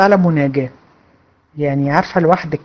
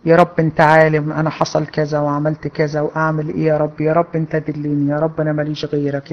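softer, pleading, fading into a hushed plea; humble private prayer; 3 semitones lower, 5 dB quieter than usual. Shown as a demonstration. Showing a student how to talk to God: soft humble plea. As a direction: pour it out to God as if alone, getting quieter. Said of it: "لا، لا، كده".

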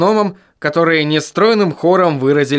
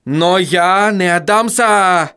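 slow defiant cry, pitched up; вскрикнуть с вызовом, медленно; shout; 6 semitones higher, slower than usual. Acted. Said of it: "закричал он". (отчаянный выкрик вампира)

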